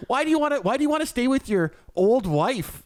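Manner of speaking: high whiny mock plea; mocking crazy ex. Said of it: "she's just like".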